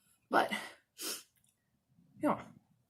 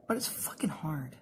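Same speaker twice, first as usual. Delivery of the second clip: breathy whispered aside, half to herself; 4 semitones lower, 8 dB quieter than usual. Real, not acted. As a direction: drop to a whisper for the swear. Aside about training the cat.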